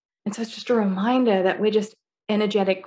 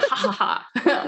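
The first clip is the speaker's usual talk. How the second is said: mock universe laughing; 3 semitones higher than usual. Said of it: "the universe laughed at you".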